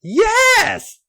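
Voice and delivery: high, loud moaning yes; moaned yes. A narrator's reading. Stephanie moaning her answer high and loud. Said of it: "she moaned".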